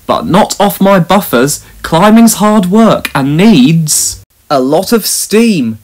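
a hint of a proud, steady engine; engine Caldy. Caldy's voice, held figure.

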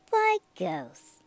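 high, eerie ghost wail; ghostly voice. Acted. Ghost voice in spooky story.

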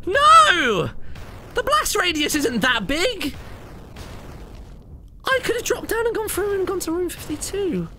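high furious shouts at the game; raging gamer. Real, not acted. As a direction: yell in disbelief at the game. Dies after boss win, raging.

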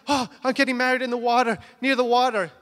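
mildly excited, quick bridal gushing; excited bride. Retold or imitated. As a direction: gush like an excited bride, lightly imitated. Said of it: "so excited".

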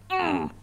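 tight-hug "mm"; hugging noise. Shown as a demonstration. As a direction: squeeze out a hug grunt. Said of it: "If I could hug you".

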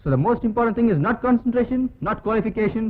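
slow, declaiming film hero speech; rehearsing a speech. Pretend. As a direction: deliver it like a grand screen monologue. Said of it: "நான் என் வீட்ல நடிக்கிறேன்". (மிக மெதுவான மேடைப் பேச்சு போல ஒத்திகை)

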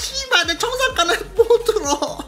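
high-pitched hysterical crowing with laughter; exultant cursing. Real, not acted. Trader crowing at doubters after surviving the countdown, exultant. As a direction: stretch the curses out high, half laughing.

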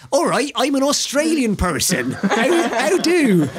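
hammed-up bad Australian greeting; imitating his bad Australian accent. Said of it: "Or in his case".

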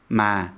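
ma falling and sad. Shown as a demonstration. Teacher demos the falling tone for learners. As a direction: let ma sink sadly. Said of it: "sad tone".

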